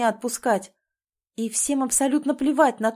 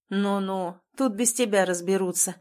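plain reading voice

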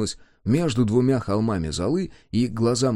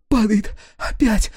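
high, loud terrified cries; panicked cries; 10 semitones higher, 4 dB louder, slower than usual. A narrator's reading. Woman shrieks in terror at the sun, panicked. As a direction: cry out in blind panic. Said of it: "отрывисто вскрикивала она".

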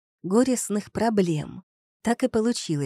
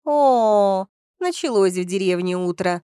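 exasperated; 4 dB louder than usual. Acted. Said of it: "Милена картинно закатила глаза".

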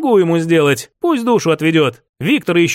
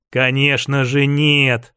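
slow, lower, syrupy agreement; husband placating his fiancée, sickly sweet; sugary-sweet; 5 semitones lower, slower than usual. Acted. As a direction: sweeten it till it cloys. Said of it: "ответил я приторно-сладким голосом".

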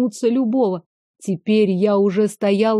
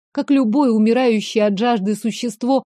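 ordinary delivery

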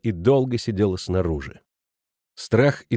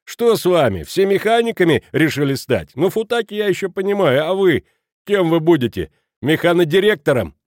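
higher, louder mocking jibes; 6 semitones higher, 4 dB louder than usual. A narrator's reading. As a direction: taunt them, voice up. Kraner mocking the others.

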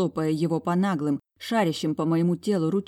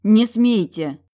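sharp protest; 5 semitones higher, 9 dB louder, slower than usual. A narrator's reading. Heroine forbids him.

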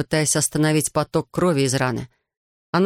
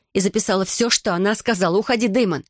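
higher-pitched, insistent woman's voice; urgent insistence; 5 semitones higher than usual. A narrator's reading. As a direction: press him firmly to go. Bri urgently orders Damon away. (настойчиво, высоким голосом)

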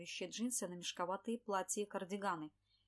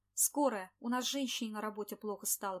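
shouted; 5 dB louder than usual. Acted. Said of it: "прокричал парень".

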